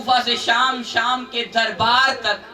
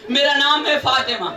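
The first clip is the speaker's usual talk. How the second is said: put-on louder, declaimed child's answer; raised grieving declaration; louder repeat; 3 dB louder than usual. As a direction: repeat it out to the gathering.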